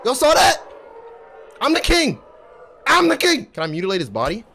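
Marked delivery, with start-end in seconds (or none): 0.0-2.2 higher, louder brag, stress on "king"; "king" पर ज़ोर, शेखी से; boastful. Acted. Boasting after win. 2.9-3.5 higher, louder brag, stress on "I'm"; "I'm" पर ज़ोर, और ऊँचे सुर में शेखी; boastful. Acted. Repeated boast.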